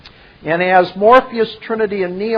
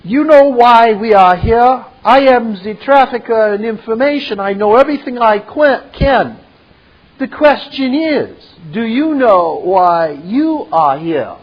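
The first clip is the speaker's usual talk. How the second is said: higher, louder boastful connoisseur; Merovian voice; 4 semitones higher, 4 dB louder than usual. Acted. Merovian boasts to his guests about French wine, raised smug voice. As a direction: savour every word like fine wine, smug. Merovian quote resumed, self-assured.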